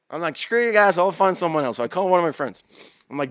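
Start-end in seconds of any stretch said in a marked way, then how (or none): 0.4-1.8 mock defiance. Defying doctors.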